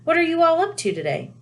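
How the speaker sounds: high motherly voice; a cheerful mum; Mrs Weasley voice. A narrator's reading.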